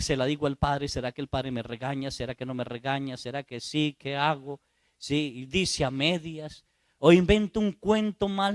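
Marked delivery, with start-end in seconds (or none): 0.0-4.6 penitente dudoso. Retold or imitated. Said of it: "usted empieza a decir".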